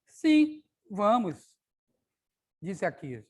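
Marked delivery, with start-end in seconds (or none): 0.0-1.4 "Sim, vamos" agudo e alto, cheio de vontade; animada. Acted. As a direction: chame as amigas com entusiasmo. Menina animada chamando as amigas. (sim animado de criança)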